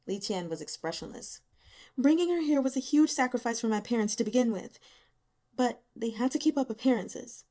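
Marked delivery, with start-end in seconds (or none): 2.0-7.4 lightly voiced young woman, bitter and self-pitying; a hint of a worn-out student, bitter. Young woman unloading her misery on the investigators, bitter.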